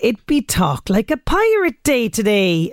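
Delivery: slow, hammed-up pirate growl. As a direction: ham it up like a pirate captain. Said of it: "after my pirate talk".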